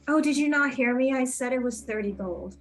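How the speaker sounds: opens high and loud, then settles; mock-affronted haggler holding firm on price; affronted shopkeeper. Shopkeeper haggling with a customer over price, affronted.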